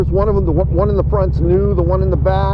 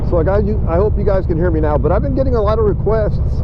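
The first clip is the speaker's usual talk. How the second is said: cheeks squeezed by tight helmet; slight lisp, cheeks pressed in; 4 semitones higher than usual. Real, not acted. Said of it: "this helmet's new and it squeezes my cheeks and it makes me talk like with the lisp".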